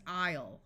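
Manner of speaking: "aisle" said like "I'll"; "aisle" rhyming with "mile"; long I in "aisle". Shown as a demonstration. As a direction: give "aisle" an eye vowel, silent s. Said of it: "with a long I sound".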